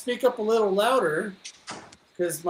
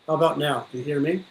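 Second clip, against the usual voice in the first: bad connection; 3 semitones lower, much faster than usual. Real, not acted. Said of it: "You sound really far away".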